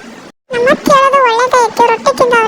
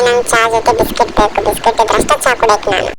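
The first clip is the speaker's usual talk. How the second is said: put-on, lower-pitched child asking; child's voice; 11 semitones lower than usual. Daughter asks her mummy for biscuits, put-on child voice. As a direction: whine for biscuits with the tea.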